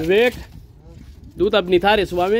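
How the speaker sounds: loud call to a helper. Real, not acted. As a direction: shout over to Vivek. Calls out to helper Vivek.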